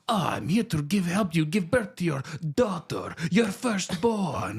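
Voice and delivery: put-on spicy little Hispanic lady accent; comic imitation of a Hispanic midwife's accent. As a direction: put on a hammed-up Hispanic accent, drawing out the words. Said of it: "spicy little Hispanic lady".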